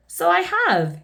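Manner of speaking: high, giggly storybook voice; giggly delight. A narrator's reading. King discovering he can laugh, giggly delight. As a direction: pitch it up with mock glee. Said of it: "he giggled".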